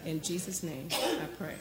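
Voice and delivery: measured, reverent prayer voice; earnest prayer. Real, not acted. Pastor praying to Heavenly Father before the message, earnest prayer. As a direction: pray aloud in short, heartfelt phrases.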